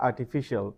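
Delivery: "artificial" ending "shee-al"; common mispronunciation. Shown as a demonstration. Teacher showing what some people say, mispronounced. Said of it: "Some people say".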